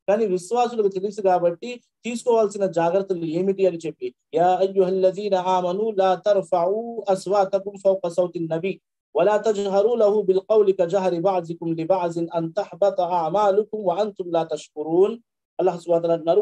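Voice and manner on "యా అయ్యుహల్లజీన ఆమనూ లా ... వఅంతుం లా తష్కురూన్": slow, measured chanting of the Arabic verse; slow Quranic recitation. Acted.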